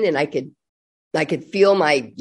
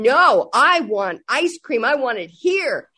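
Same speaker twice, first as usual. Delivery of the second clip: mock child tantrum; 5 semitones higher than usual. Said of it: "And he started screaming".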